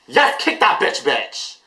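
high-pitched hyped-up cheer; thrilled, high fan cry; excited cheering. Real, not acted. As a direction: egg the singer on in a high voice. Cheering on the music video.

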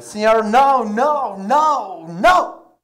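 high, loud, repeated no's in a put-on voice; the bartender refusing, hammed up; bartender protesting.

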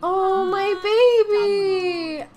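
high, slow mock-crying; mock tearful joy. Real, not acted. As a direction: play the weepy proud mom. Pregnancy news, mock mom.

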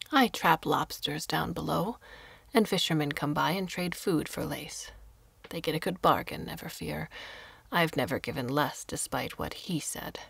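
a lightly voiced old woman, whispered; hushed old woman. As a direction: breathe the line like a frail recluse. Old woman explains her trade.

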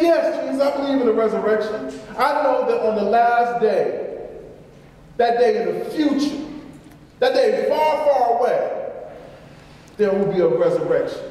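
the sister declaring belief, rising; fervent affirmation. Retold or imitated.

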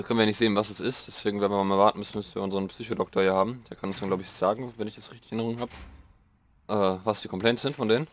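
ordinary talk, nothing marked

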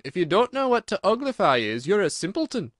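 high, emphatic put-down; scornful Gryphon. A narrator's reading. Gryphon calling Alice a simpleton, high and scornful. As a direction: berate them with scorn.

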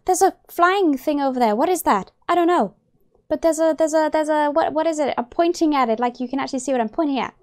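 flustered, stumbling eager chatter; real excitement. Real, not acted. Player spotting creatures in trees, excitedly flustered. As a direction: trip over the words pointing it out. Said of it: "I'm just really excited right now".

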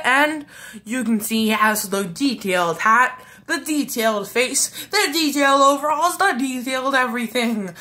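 hyped announcer presenting each detail. Pretend. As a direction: sell it like a game show host. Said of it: "I sound like an announcer".

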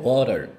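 "water" luid, als "worar"; flap T. Shown as a demonstration. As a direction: geef "water" een getikte r-klank. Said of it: "이렇게 발음할 수 있어요".

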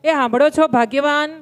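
calling out to wife. Retold or imitated. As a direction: call her from the dining room. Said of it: "બૂમ પાડી".

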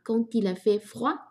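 "Quand il" linked with a t sound, "kan-til"; slow model of "Quand il fait froid", linking d as t into "il"; liaison. Shown as a demonstration. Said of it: "quand里面的de和il也连读哈".

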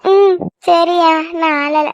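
slow, mildly tearful agreement; holding back tears. Acted. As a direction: pull yourself together after crying, understated. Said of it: "அழுகாத". (அழுகையை லேசாக அடக்கிக்கொண்டு)

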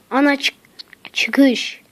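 hushed whisper to himself; tense little whisper. Real, not acted. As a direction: whisper it so nothing hears you. Alarmed in a spooky map.

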